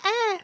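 high, short mock shriek; imitated shriek. Mimicking the girl covered in blood, imitated shriek. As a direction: squeal an imitated "ah". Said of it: "No, she's like".

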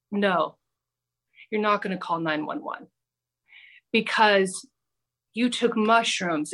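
low, measured imitation of a calm guru; super calm. Imitating drug guru talking her down, super calm. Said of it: "He was just super calm".

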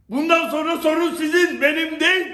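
loud, stress on değil; angry shout. Real, not acted. Angry rant at persecutors.

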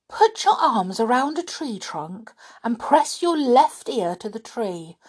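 high, emphatic burst of advice; sudden urging. A narrator's reading. Squirrel tells the children how to hear trees, urgently. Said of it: "said the squirrel suddenly".

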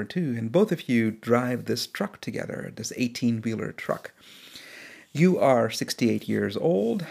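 calm, unhurried storyteller voice; story narration. A narrator's reading. Podcast host narrating a quarantine story, steady and calm. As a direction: draw the listener into the scene.

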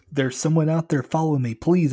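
high, loud, urgent plea; pleading. A narrator's reading. Kid begs the furious driver for protection, pleading. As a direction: beg loudly to be believed. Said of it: "I pleaded".

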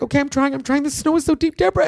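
high, strained panic, rising to the name; a frantic friend stuck in the snow; panicked friend. Retold or imitated.

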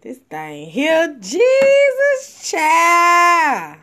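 choppy, breaking-up phone line; distorted, cutting-out call audio; buzzy glitchy call audio. Real, not acted. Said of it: "You come in clear one second and then you come in choppy".

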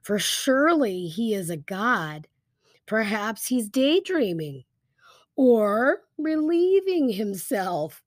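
lightly mocking, with drawn-out key words; a touch of playful scoffing; sarcastic mockery. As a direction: taunt with mock-reasonable guesses. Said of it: "I love this sarcasm".

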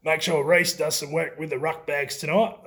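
a hint of the coach giving phone instructions; Grant Russell. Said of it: "That's my best Grant Russell voice".

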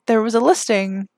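a sigh, then nearly whispered; choked up. Real, not acted. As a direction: struggle to get the words out. Overcome with emotion telling story.

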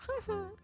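high, quiet little giggle; eerie toy laugh, imitated; imitated doll giggle. Driver imitating what he kept hearing in the van, giggle. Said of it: "I just kept hearing".

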